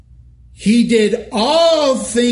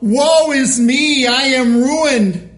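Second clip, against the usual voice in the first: anguished cry; 5 semitones higher, slower than usual. Acted. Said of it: "The prophet Isaiah cried out".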